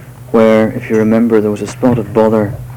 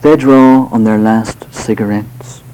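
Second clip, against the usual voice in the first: poetry reading. Acted. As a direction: read the verse gently, letting lines settle. Poet reads his poem aloud.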